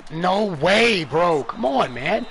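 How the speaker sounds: can't believe what just happened; frustrated outburst. Real, not acted. Yelling at the game he's playing.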